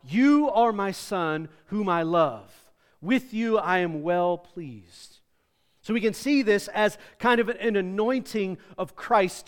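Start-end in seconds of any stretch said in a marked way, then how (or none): 0.0-5.2 slow, solemn heavenly proclamation; voice of the Father. Acted. Father speaks from heaven to the crowd, slow and solemn. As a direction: let each word land slowly, from above. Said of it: "saying from the Father to Christ".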